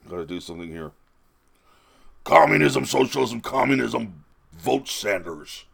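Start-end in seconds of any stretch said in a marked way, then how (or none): 2.2-5.7 Bernie Sanders impression. Vlogger does Bernie at a rally, shouting then slow. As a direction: shout the slogans like a fired-up old senator, then sign off slow. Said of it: "Bernie Sanders impression".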